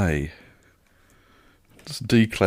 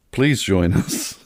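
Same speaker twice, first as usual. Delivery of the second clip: mock pleading.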